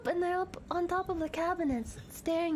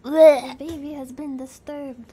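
loud and slow, mock-solemn; loud mock announcement; 10 dB louder, slower than usual. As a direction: announce it gravely, playing it up.

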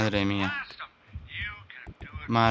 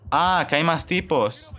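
slow drawn-out ah, pitched up; dismayed realisation; 4 semitones higher, 3 dB louder, slower than usual. Real, not acted. Realising more enemies are coming, slow dismayed ah. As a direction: let the news sink in, dragging it.

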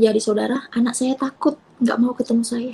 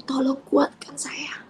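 tearful plea; 3 semitones higher, 8 dB quieter, slower than usual. Retold or imitated. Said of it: "Saya menangis".

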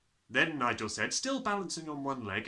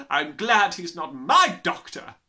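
loud slow sneer; 6 semitones higher, 13 dB louder than usual. Acted. Trunchbull sneering.

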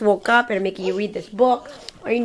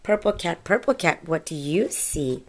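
put-on reading to a toddler. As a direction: read it like a bedtime picture book. Reading picture book.

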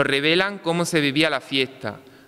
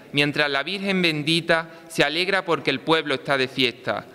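town crier. Acted. Recited festival poem, pregón.

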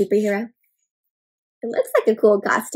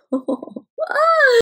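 high, hammed-up Dracula laugh; vampire laugh. A narrator's reading. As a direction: cackle like a stage vampire. Finishing Dracula rhyme.

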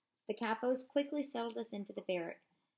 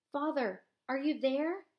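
high, raised call into the crowd; calling for father; 6 semitones higher, 6 dB louder than usual. Acted. Eliezer calling out for his father, high and raised. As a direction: search for him by voice.

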